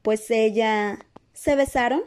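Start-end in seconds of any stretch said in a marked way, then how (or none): 1.3-2.0 higher, abrupt interjection; brusque, rising query; brusque question. A narrator's reading. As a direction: cut in with a blunt question. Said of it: "inquirió Hermione bruscamente".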